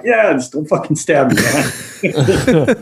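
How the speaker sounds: laughing half-serious plea. Retold or imitated. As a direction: laugh while pleading. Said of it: "I was like".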